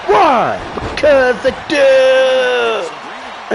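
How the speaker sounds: high squeaky cartoon yelling; hammed-up cartoon kid. Quoting cartoon bit.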